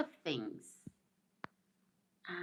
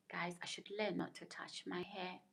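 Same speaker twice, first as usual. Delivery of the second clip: whisper; 8 dB quieter than usual. Real, not acted. Aside to viewers about her hair.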